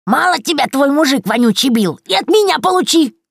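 high, loud gloating shout; angry yelling. A narrator's reading. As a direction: yell while striking. Sister hitting Yaga.

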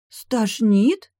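high, loud puzzled echo. A narrator's reading. Mother echoes her daughter, surprised and high. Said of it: "вскинула бровь матушка".

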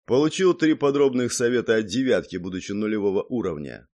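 ordinary delivery

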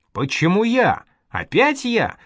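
high-pitched protest, pushed up sharply; indignant yell. A narrator's reading. Пронya balks at being sent on guard, yelling in protest. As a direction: cry out in protest at being picked. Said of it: "заорал Проня".

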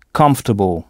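"Comfortable" said the English way, low, no French nasal vowel; English pronunciation. Shown as a demonstration. Teacher showing French learners a very different pronunciation, English "Comfortable". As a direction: say "Comfortable" as English KUMF-tuh-bul, not French. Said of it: "la prononciation est très différente".

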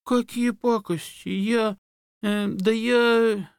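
high, slow stammering fox; flustered fox. A narrator's reading. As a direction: stammer out a denial.

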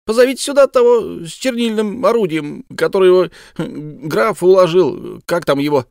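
высокий звонкий голос птицы-дамы; говорить высоко, по-птичьи; голос птички. Acted. Bird character voice. (птичка требует, высоко и громко)

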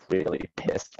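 "Really pissed" dropped low and breathed out under the breath; muttered aside, savouring the words; low whispered echo; whispered repeat. Acted. Repeats the phrase to himself.

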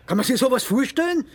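loud, rising indignation that ends in a spat insult; furious at the nerve of the man; bitter loud complaint about the old neighbour; indignant outrage. Acted.

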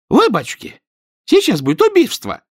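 высоко и громко, в ужасе; закричи тонким женским голосом; испуганный крик. A narrator's reading. Испуганная соседка кричит. (соседка в ужасе кричит)

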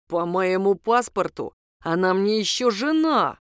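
slow, tight, held-back anger through his teeth; swallowing his rage. Acted. Ex-husband insisting she is still his wife, through his teeth. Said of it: "сказал экс-супруг сквозь зубы".

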